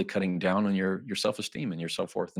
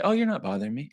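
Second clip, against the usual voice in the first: higher-pitched mock-polite reassurance; acted social nicety, pitched up; 6 semitones higher, faster than usual. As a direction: reassure lightly, voice lifting at the end. Acting listener's polite reassurance.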